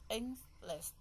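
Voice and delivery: "English" in two separate beats, Eng, lish; split into syllables. Shown as a demonstration. Teacher counting the syllables in English, "English" split in two. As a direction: break "English" apart syllable by syllable. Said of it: "We have English".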